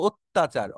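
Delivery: অত্যাচার stressed, opening on a closed "ot"; correct pronunciation. Shown as a demonstration. Teacher telling students to take note, অত্যাচার as "ottachar". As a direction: say অত্যাচার firmly as "ot-tachar". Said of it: "খেয়াল করো".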